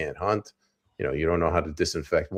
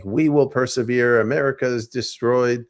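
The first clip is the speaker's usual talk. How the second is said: mock PA propaganda; 5 semitones higher than usual. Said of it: "they're screaming through the P A system saying".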